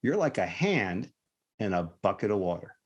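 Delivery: spaced-out phrases with pauses, imitating a patient explainer. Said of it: "And the kid just didn't get it".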